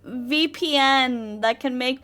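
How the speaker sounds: asking while laughing; giggly pleading question. Real, not acted. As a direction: laugh through the request.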